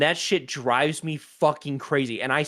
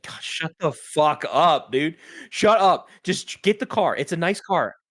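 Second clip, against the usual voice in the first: fed-up rant; 3 semitones higher than usual. Retold or imitated. Annoyed at bragging Tesla owners.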